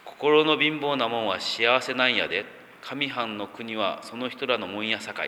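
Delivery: lightly put-on Osaka dialect; a touch of Kansai intonation on a Bible verse. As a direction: recite it in homely Osaka-ben. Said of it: "大阪弁になると".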